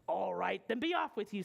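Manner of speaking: lightly voiced gruff troll; grudging troll. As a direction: dismiss him as a mildly gruff troll. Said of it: "said the troll".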